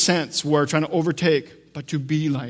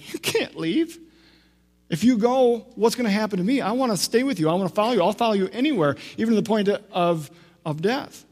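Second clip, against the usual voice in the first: passionate pleading, pitched high; acted high-voiced, anxious protest at being left; Peter; 5 semitones higher than usual. Disciple begging his rabbi not to leave, high impassioned plea. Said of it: "you catch Peter's passion".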